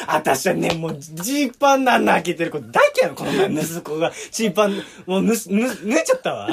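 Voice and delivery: lightly voiced chatty older woman; a faint hint of a gossiping auntie; Rie Shibata impression. Impression on request, barely changed from his own voice. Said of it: "柴田理恵".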